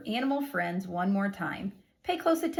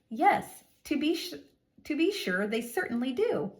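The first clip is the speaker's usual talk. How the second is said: higher, eager yes; excited answer; 4 semitones higher than usual. Shown as a demonstration. Teacher reading an excited answer to the class. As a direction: answer it with delight.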